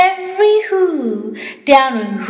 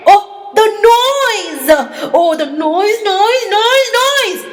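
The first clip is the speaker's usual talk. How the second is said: rising exasperation; 8 semitones higher than usual. A narrator's reading. Grinch's rising disgust at noise.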